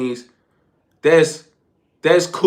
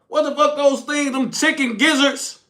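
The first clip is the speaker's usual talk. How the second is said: higher, eager mock craving; a hammed-up friend begging for chicken gizzards; mock gizzard fan; 5 semitones higher than usual. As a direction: imitate a buddy hyped for gizzards. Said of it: "How about motherfucker be to my".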